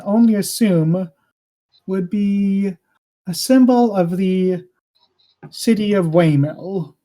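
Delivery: lightly voiced king making a pointed accusation; deliberate, with weighty pauses between phrases; glaring king.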